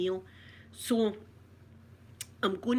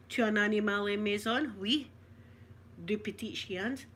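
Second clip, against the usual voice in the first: party French. Shown as a demonstration. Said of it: "Say something".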